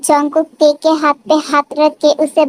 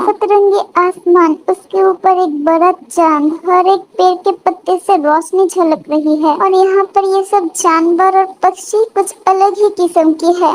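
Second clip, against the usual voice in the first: higher-pitched marvelling wife's voice; awestruck Te; 4 semitones higher than usual. Acted. Wife sees a strange glowing world, awestruck. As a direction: take in the sights with wide-eyed wonder.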